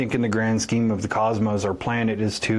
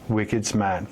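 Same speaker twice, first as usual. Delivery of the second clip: put-on Boston accent; 2 semitones lower than usual. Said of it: "New England accent".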